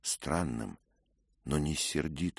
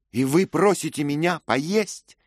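higher, louder outraged question; indignant cry; 13 dB louder, slower than usual. A narrator's reading. Lady refusing food from her kinsman's killer, crying out in outrage. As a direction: fling the question at him in disbelief. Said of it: "вскрикнула она".

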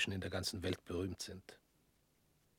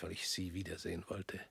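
a hushed, voiceless admission; whisper; 2 semitones lower, 6 dB quieter than usual. Acted. Visitor whispering his true motive to old opponent. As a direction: confess it under your breath. Admits wanting to see him.

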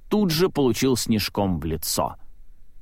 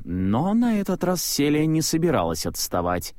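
ordinary delivery, nothing marked

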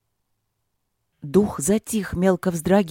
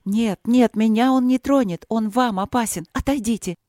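urgent alarmed warning; 5 semitones higher than usual. Acted. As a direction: push them back in alarm. Queen warns guards off danger.

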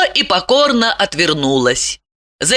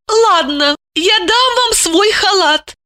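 relenting; 12 semitones higher than usual. A narrator's reading. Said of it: "Она сжалилась".

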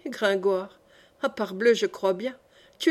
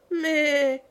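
a mournful goat's "mais", pitched up; sad bleat; 4 semitones higher than usual. A narrator's reading. Goat bleating longingly at the mountain, sad.

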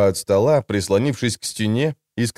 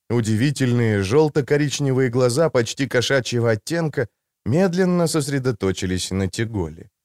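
usual speaking voice

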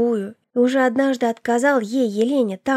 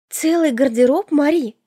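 put-on louder, startled young sister; taken aback; 4 semitones higher, 4 dB louder than usual. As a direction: gasp at the news, a touch raised. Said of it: "опешила она". (опешившая, чуть громче)

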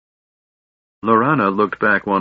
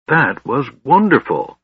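a touch of wonder, pitched higher; in awe; 6 semitones higher than usual. A narrator's reading. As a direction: breathe it out amazed. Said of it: "Tass said in awe".

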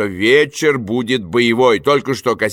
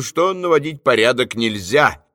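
usual speaking voice

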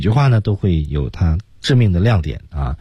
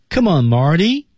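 "Come on, Marty" with the voice rising at the end; rising tune; 9 semitones higher than usual. Shown as a demonstration. Teacher showing students the rise, rising tune. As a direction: lift the pitch up on "Marty". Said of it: "升调".

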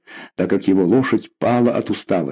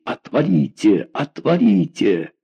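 ordinary delivery, nothing marked

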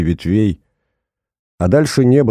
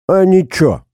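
higher, louder snappy comeback; aggressive retort; 10 semitones higher, 4 dB louder than usual. A narrator's reading. Timid Danka snaps back at Yurka, higher and louder. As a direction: throw it back at him, spoiling for a fight. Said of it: "агрессивно ответил Данька".

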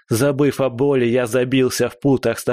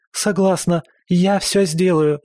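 frightened cry; 7 semitones higher than usual. Acted. Girl agreeing to the thug's demand, high frightened cry. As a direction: blurt it out high, scared and giving in. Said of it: "крикнула белка".

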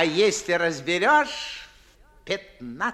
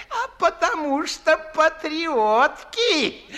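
laughing, high and loud; laughing punchline; 8 semitones higher, 5 dB louder than usual. Acted. Old gentleman laughing at his own joke about patriotic girls.

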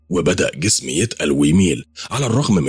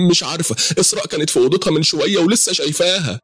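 higher, upset mother's voice; 12 semitones higher than usual. Acted. Mother flustered as father searches, higher upset voice. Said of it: "وهي منارة".

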